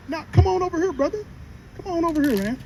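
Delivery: high-pitched friendly beckoning; mock coaxing. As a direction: lure them over like a fake friend. Acting out luring into a trap.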